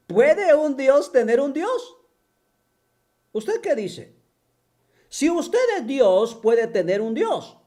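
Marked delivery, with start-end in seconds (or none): 0.1-2.0 laughing question. Real, not acted. Laughing while repeating the question.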